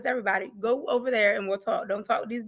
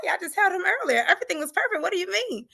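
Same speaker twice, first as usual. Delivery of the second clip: retold disbelief; 7 semitones higher than usual. Retold disbelief at bad news.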